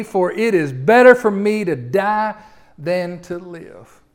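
hammed-up, drawn-out lament; drama queen. Jonah begging God to take his life, melodramatic. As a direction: plead grandly with God, milking every phrase. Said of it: "He's a little bit of a drama queen here".

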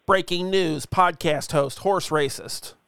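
spoof breaking-news headline read; mock-serious anchor delivery; mock newsreader. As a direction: announce it like a news bulletin.

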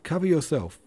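high, loud warning cry; urgent shout. A narrator's reading. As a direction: yell it across the field. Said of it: "even Denisov cried to his adversary".

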